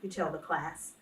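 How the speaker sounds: expressive picture-book read-aloud; reading to children. Acted. Teacher reading a picture book aloud to kids, gently expressive. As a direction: read the story warmly to the class.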